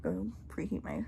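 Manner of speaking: breathless whisper; gasping for air; out of breath. Real, not acted. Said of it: "I'm out of breath".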